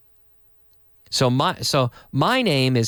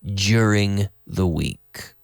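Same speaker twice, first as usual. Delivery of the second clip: slow and clear, each word separate; slow model sentence; 4 semitones lower, slower than usual. Shown as a demonstration. Teacher reading the sentence of the day slowly. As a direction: read it slowly for learners. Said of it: "our sentence today".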